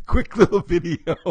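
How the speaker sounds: giggling through it; words broken by laughter; laughing. Real, not acted.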